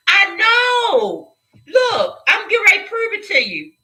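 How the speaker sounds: high-pitched, on the verge of crying; close to tears. Real, not acted. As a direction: plead as tears start to rise. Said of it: "I'm about to cry".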